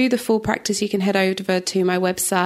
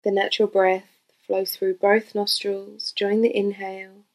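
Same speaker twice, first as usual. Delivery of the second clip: guided meditation. Real, not acted. Yoga teacher leading listeners through breath awareness, calm guided meditation. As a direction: gently guide them into stillness, phrase by phrase.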